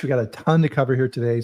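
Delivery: quick whispered aside. Real, not acted. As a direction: whisper it to your co-host. Aside to guest.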